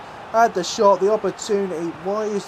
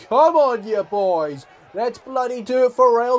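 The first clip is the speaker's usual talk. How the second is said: rallying cheer; 5 semitones higher than usual. Real, not acted. Gamer rallying his squad before the European final, excited shout. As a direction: fire up the team before kickoff.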